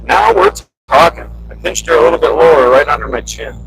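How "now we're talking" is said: high, upbeat cheer; excited. Real, not acted. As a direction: cheer it like a win. Repeats with energy.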